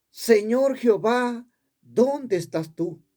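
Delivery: slow, drawn-out call to the Lord; retold cry to God. Preacher retells calling to God at the altar, a mild cry. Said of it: "Volví a gritar".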